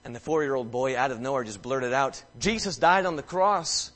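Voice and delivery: soft, low preaching. Real, not acted. Preacher quietly telling the family dinner story, hushed. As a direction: draw them in close and tender.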